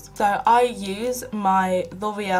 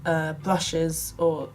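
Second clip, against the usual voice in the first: whispered aside; 2 semitones lower than usual. Real, not acted. Self-deprecating aside.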